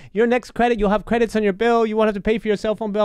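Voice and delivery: put-on Filipino accent. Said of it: "an impression of a Filipino lady".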